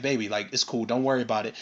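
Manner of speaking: low, soft reassurance; retold soothing, hushed and low; soothing partner. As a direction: play a partner gently calming their man down. Voicing a partner soothing her man.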